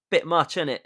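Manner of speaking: lightly put-on colloquial British accent; mock British aside in the style of a famous singer. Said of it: "if she had a British accent".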